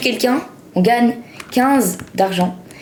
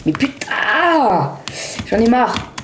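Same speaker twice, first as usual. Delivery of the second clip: raging gamer; 2 semitones higher, slower than usual. Real, not acted. Fails the course again.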